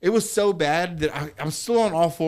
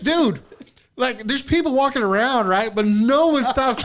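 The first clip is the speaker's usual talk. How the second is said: laughing retelling; 9 semitones higher, 6 dB louder than usual. Retold or imitated. Retelling his own complaint.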